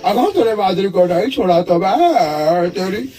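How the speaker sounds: a hint of Suniel Shetty, stiff and serious; lightly voiced deadpan action hero; Suniel Shetty impression. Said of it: "सुनील Shetty.". (सुनील Shetty की हल्की नकल)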